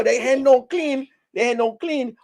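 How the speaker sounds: scandalized high-voiced goat; high shocked repeat. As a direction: repeat it like you can't believe it. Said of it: "You know".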